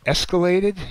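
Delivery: escalated? shouted high and loud; a loud, high, incredulous escalated?; mocking question. Shown as a demonstration. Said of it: "You drive an Escalade?".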